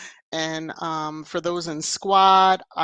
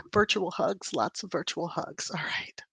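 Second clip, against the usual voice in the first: softer and softer, ending in a mock whisper; fading to a whisper; 6 dB quieter than usual. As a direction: let the hugs fade to a hush. Fading consolation to a viewer.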